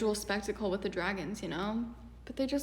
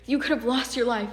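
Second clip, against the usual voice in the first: loud, mock-outraged telling-off; play-acted indignant scolding; 5 dB louder than usual. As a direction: scold them in a hammed-up fury, opening loud. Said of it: "Remote is scolded by Hairband".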